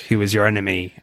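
lightly hammed-up French accent; a weak stab at a French accent; bad French accent. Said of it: "terrible French accent I just did".

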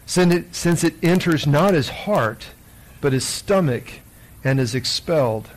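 solemn, measured Gospel reading with deliberate pauses; scripture reading. Acted. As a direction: proclaim each phrase slowly and distinctly. Reads the Gospel aloud.

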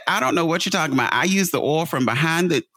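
fast, high mock mom protest; a tired mom insisting her cooking is fine, fast and high; mom defending herself.

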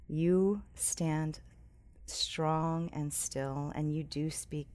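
a hushed prayer from the pulpit; earnest prayer. Real, not acted. Pastor prays aloud.

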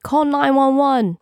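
high, drawn-out call for help; shouted call. A narrator's reading. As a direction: call it out across a crowd. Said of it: "someone shouted".

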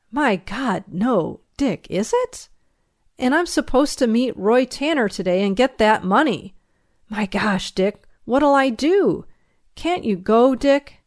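anxious pleading; imploring. Acted. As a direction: beg a favour in mounting alarm. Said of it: "I implored".

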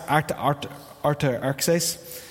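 halting, tripping over Artaxerxes; stumbling over a name. Real, not acted. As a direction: stumble through Artaxerxes slowly, syllable by syllable. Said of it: "Could have said that much more dig".

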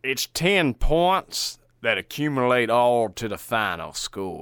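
slow, light Southern drawl. Acted. Cohost mocking the rating rule, light Southern drawl. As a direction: draw it out like a Southern fella. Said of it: "the Southern voice when you say ten points altogether".

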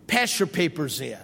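low, flat teacher's command; teacher's order. Retold or imitated. Teacher ordering the class to hand in papers, stern. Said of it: "She says".

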